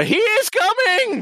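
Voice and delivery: high, slow, theatrical stage whisper. Acted. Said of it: "I whisper".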